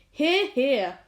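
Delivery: loud cheer; cheering shout. A narrator's reading. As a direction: shout agreement again. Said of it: "they all shouted".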